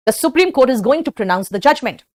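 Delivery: stretched, word by word; slow model sentence. Shown as a demonstration. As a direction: read it slowly for the class. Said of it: "क्लियर?".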